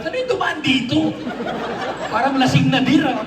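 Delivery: puzzled onlooker laughing at the sight; mock passerby. Comic voicing passersby puzzled by his tracks.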